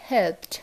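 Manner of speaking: হেল্পড with a crisp T at the end. Shown as a demonstration. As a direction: say হেল্পড as "helpt", one syllable. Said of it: "কীভাবে উচ্চারণ হবে".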